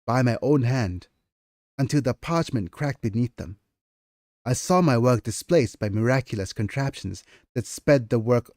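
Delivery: measured storyteller reading; story narration. Acted. Author reading her novel to chat, measured narration. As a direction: read it like an old scribe's memoir.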